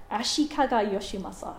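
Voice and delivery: Japanese accent, lightly attempted. Shown as a demonstration. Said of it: "that's my best Japanese accent".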